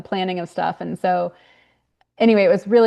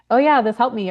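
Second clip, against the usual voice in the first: higher-pitched imagined happy feedback; pleased reader; 4 semitones higher, 4 dB louder than usual. Pretend. Author imagining feedback from readers, mildly enthusiastic. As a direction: lightly voice an appreciative reader.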